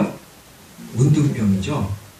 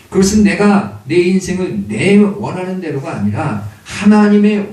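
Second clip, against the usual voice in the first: forceful sermon delivery with strong, loud phrase openings; emphatic preaching; 4 semitones higher, 5 dB louder than usual. Real, not acted. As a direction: press each point home to the congregation. (힘 있게 강조하는 설교조)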